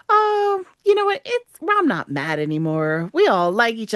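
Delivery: high, bright oh that settles; a burst of fake relief; hammed-up sudden friendliness; sudden mock change of heart. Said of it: "everybody's like".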